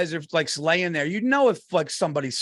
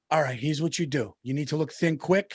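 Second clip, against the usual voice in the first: lower, softer earnest advice; earnest dad; 3 semitones lower, 3 dB quieter than usual. Retold or imitated. Dad advises son on slimming, in earnest. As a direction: play a dad giving sincere, matter-of-fact counsel. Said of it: "as earnest as he could be".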